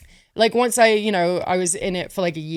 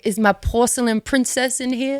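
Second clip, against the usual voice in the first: lightly voiced coaxing old mentor, a little higher; imitating Dusty; 4 semitones higher than usual. Coach knocks on locker room door, gently coaxing in a light imitation. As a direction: coax her out from behind the door. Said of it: "he was like".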